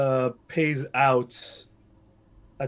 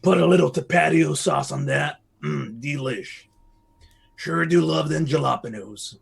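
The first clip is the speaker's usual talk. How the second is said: mock Mexican accent; slower than usual. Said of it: "speak in a mock Mexican accent".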